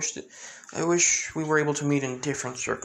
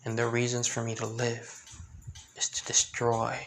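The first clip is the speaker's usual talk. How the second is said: hushed vow; 2 semitones lower, 5 dB quieter than usual. Acted. Hushed vengeful figure's confession.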